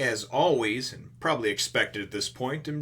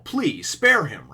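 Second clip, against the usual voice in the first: slow, louder mock begging; mock plea; 3 semitones higher, 6 dB louder, much slower than usual. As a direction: beg slowly for mercy. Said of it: "and he says".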